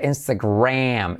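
slow "Instagram" with drawn-out English R; key R sound. Shown as a demonstration. Teacher showing the key R, slow English-R "Instagram". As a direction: stretch out "gram" in "Instagram". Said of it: "letra clave R".

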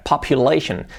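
"Population" as pop-yu-LAY-shun; careful English "Population"; correct pronunciation. Shown as a demonstration. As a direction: model "Population" with SH ending. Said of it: "es complicada de pronunciar".

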